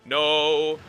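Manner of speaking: loud high frantic yelling; panicked shout. Real, not acted. Trapped by the monster, panicked no's. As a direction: scream in panic.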